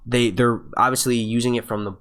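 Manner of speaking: tripping over words and restarting; stuttering. Real, not acted. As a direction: stumble and repeat as you go. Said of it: "I'm stuttering on my speech pattern".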